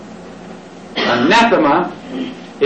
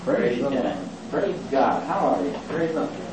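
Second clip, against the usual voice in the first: mock greeting; 4 semitones lower, 11 dB quieter than usual. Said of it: "meet each other and you say".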